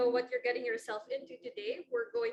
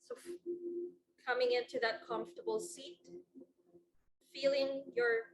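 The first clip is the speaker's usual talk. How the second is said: unhurried meditation guidance with long pauses between phrases; guided meditation. Real, not acted. Yoga teacher settling the class into a seated position, guided meditation. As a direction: ease them gently into stillness, phrase by phrase.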